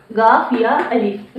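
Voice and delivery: letters named one by one, slowly; slow spelling out. Shown as a demonstration. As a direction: spell out गाफ या अलिफ slowly for the class. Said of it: "ये हो गया गया".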